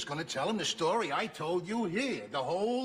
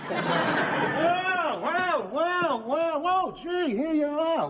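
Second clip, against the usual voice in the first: hearty greeting; 8 semitones higher, 3 dB louder, much slower than usual. Acted. Husband greets the lady he saved.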